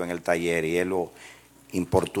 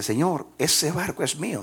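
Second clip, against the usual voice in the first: put-on child protesting; 9 semitones higher than usual. Boy claims boat to shopkeeper.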